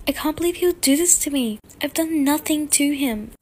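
hurt and disbelieving; upset. Acted. Mother upset about breakup.

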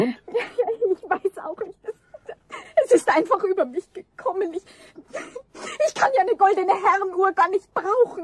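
a caught woman crying as she confesses; tearful confession. Acted. The caught thief confesses to Eder, high and tearful.

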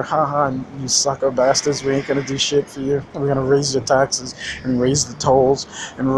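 lightly voiced smug politician cackling at voters; mocking corrupt politician. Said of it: "he says".

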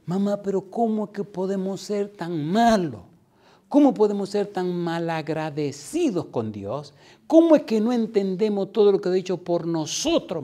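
high, loud, drawn-out mock wail; crying, preaching. Son preaching to his mother and crying, wailing. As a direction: wail it imploringly, imitating a tearful preacher. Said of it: "empezó a predicar a la mamá y a llorar".

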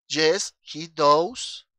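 "yes he does" muy lento, fuerte y separado; pronunciación modelo. Shown as a demonstration. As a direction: dicta "yes he does" palabra por palabra. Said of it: "escuchen cómo suena". ("yes he does" despacio y enfático)

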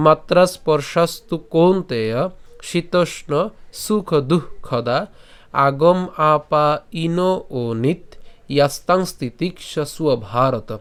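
slow, measured shloka with pauses between parts; verse recitation. Shown as a demonstration. Teacher reciting the shloka for learners, measured recitation. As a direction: recite the Sanskrit slowly, drawing out long syllables. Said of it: "শ্লোকটি আমি আবার বলছি".

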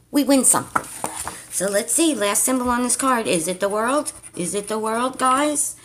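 willing the last symbol to be the world; 1 excited hope. Real, not acted. Streamer to viewers, hoping the last symbol wins, excited rising voice.

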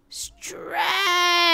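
high, drawn-out squeal of stretch; cooing stretch. Acted. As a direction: squeal the word like it's adorable. Echoes the baby's big stretch.

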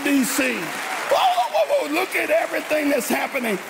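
high wailing cries of oh; preaching lament. Real, not acted. Preacher lamenting over the nation, high wailing oh cries. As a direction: cry out each oh in anguish.

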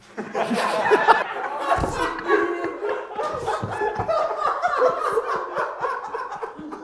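long high-pitched burst of laughter; helpless giggling fit. Real, not acted. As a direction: crack up high and long at the joke.

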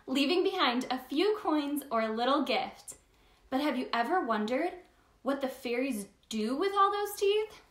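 gentle storybook narration; reading to children. Acted. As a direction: read it like bedtime story time. Reads picture book aloud.

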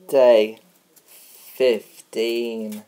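loud, spaced-out TV announcer call; mock announcer. Young host announcing the day on his pretend show, mock announcer. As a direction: boom out the day like a show voiceover.

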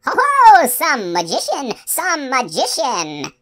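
very high, loud, drawn-out mocking cry; Mommy Fortuna. A narrator's reading. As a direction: jeer slowly in a shrieky old-witch voice. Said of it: "it cried out loudly".

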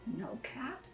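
ordinary delivery, nothing marked

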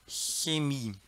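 "Chemie" starting with the airy hiss of ich; soft initial Ch. Shown as a demonstration. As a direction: model "Chemie" slowly with soft German ch. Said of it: "a gente fala com som de Ch". ("Chemie" com Ch suave, igual Ich)

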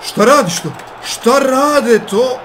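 high, loud, stretched-out what; outraged disbelief. Real, not acted. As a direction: yell in disbelief at the screen. Outraged at the opponent's play.

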